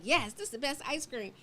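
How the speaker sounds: acted excitement. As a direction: play up matching enthusiasm for ice cream. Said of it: "be as excited".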